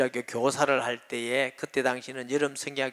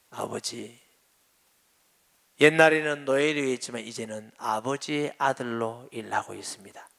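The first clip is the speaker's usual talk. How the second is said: hushed, touched voice of the son; tearful reply; 4 semitones lower than usual. Retold or imitated. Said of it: "눈물을 뚝뚝 흘리면서 하는 말이".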